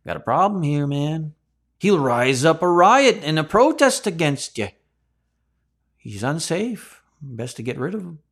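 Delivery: conspiring leaders whispering a plot; scheming priests. Retold or imitated. Voicing the priests plotting against Jesus.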